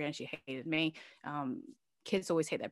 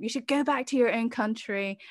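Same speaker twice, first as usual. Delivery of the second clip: put-on lightly raised child voice; imitating daughter; 6 semitones higher, 4 dB louder than usual. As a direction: quote the child with a hint of her tone. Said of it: "she ended up saying".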